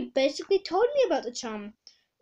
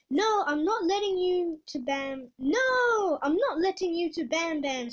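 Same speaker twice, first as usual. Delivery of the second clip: higher villain's protest; squeaky; 3 semitones higher than usual. Acted. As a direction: squeak out a refusal. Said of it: "squeaked Voice Peeper".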